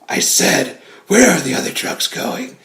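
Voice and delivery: raspy, whispered Batman growl; voiceless rasp like a lost voice. Retold or imitated. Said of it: "he loses his voice".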